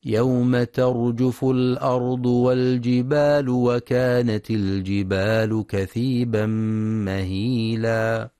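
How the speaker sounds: slow, drawn-out tajweed chanting; تلاوة مجودة بطيئة; Quran recitation. Acted. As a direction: chant the verse slowly with long vowels.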